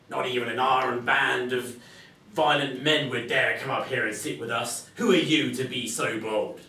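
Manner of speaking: a rough captain testing the stranger; robber captain. Acted.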